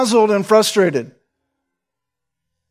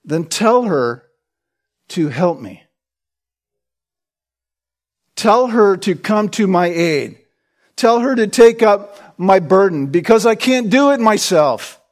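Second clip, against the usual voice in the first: exasperated plea. Acted. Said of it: "she's giving them both the stink eye".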